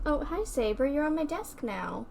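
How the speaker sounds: talking to cat. Real, not acted. Greeting cat on desk.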